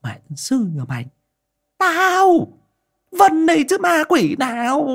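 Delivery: exasperated scolding that rises to a shout; cuss, then loudly set them straight; irritated, high-pitched snap; snapping crossly. A narrator's reading. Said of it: "Bà gắt".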